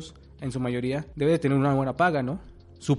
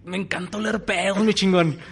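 laughing; 7 semitones higher, 5 dB louder than usual. Pretend. Pretend job applicant, laughing.

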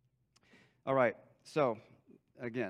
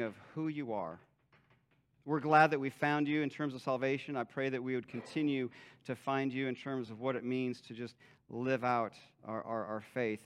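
closing prayer; 2 semitones lower than usual. Acted. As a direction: pray it gently over the room. Pastor closes in prayer.

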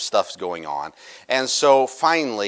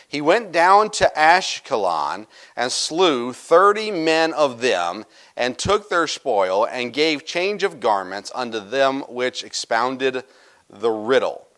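slow, deliberate Bible reading; scripture reading; slower than usual. Acted. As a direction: read the verse slowly and solemnly. Reads scripture verse aloud.

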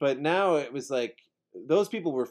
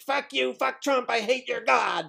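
higher, bratty mock outburst; retold little tantrum, pitched up; pissy tantrum; 11 semitones higher than usual. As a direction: stamp your foot in words. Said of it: "the pissiest little tantrum".

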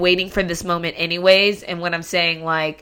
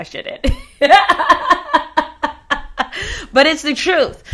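rueful laugh; 9 semitones higher than usual. Real, not acted. Laughs at own confession.

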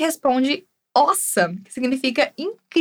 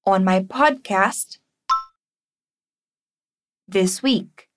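slow, clear full phrase; careful teacher read; slow model; 5 semitones lower, slower than usual. Shown as a demonstration. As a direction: model the whole phrase slowly. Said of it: "Vamos praticar essa pronúncia".

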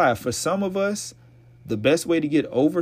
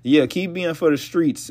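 ordinary delivery

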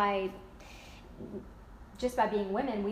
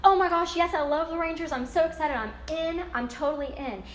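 excited, louder quick yes to the game; mock excited yes; 4 semitones higher, 4 dB louder than usual. Friend invited to the Rangers game, gushing excitedly. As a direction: gush about going to the Rangers game.

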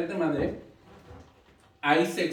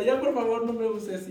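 mock plea from her tight girdle, a bit higher; pleading girdle; 3 semitones higher than usual. Joking that her girdle cries out to stop being worn, mock pleading. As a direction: beg like an overworked girdle. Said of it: "mi faja ya grita".

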